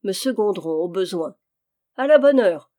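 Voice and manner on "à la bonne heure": loud, delighted cry; a glad loud exclamation; exclaiming. A narrator's reading. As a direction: burst out with joy. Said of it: "s'écria Béchamel".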